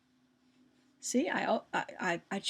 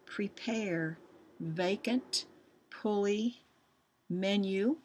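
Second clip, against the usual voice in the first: each word read out clearly, one by one; reading a spelling list; slower than usual. Shown as a demonstration. Teacher to students reading the spelling list, clear dictation. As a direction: dictate the words slowly to the class.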